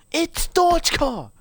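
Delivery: very high, drawn-out character squeal; slow, high-pitched comic whine; squeaky mock protest. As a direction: protest your name in a high silly voice. Mock-protest over the name.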